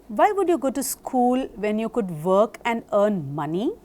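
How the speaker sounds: asked as one question rising on "money"; questioning juncture. Shown as a demonstration. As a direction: lift "money" at the end of the question. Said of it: "presence or absence of a pause".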